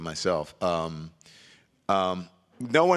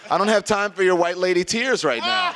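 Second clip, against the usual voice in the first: laughing; 11 semitones higher, 7 dB louder than usual. Real, not acted. Laughing while telling the story.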